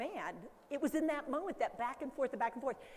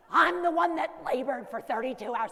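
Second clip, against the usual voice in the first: louder, laughing mock grievance; laughing complaint; 7 dB louder than usual. A mother who labored joking with a laugh.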